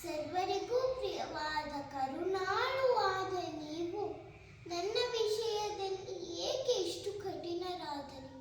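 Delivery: despairing stage appeal, ebbing at the end; plead, then sink into despair; Sita. Acted. Sita asks why she should live, despairing plea. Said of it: "ಸೀತಾಮಾತೆಯ".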